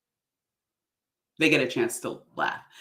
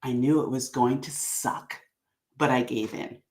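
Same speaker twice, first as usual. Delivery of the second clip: snarky; 2 semitones lower than usual. Shown as a demonstration. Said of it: "a little bit of snarkiness in there".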